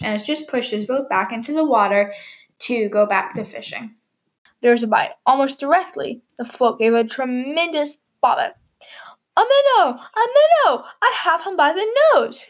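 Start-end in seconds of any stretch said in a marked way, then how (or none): 4.6-8.5 gentle storybook reading; calm picture-book narrator; story narration. A narrator's reading. 9.4-12.4 high, loud, thrilled shout of a catch; a delighted frog yelling over his catch; excited cry. Acted. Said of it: "cried Mister Jeremy Fisher".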